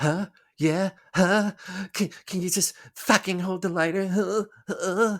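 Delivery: dramatic outburst in character voice, pitched very high. Imagining a guest on the show, doing a Nicolas Cage impression. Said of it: "my best Nicolas Cage".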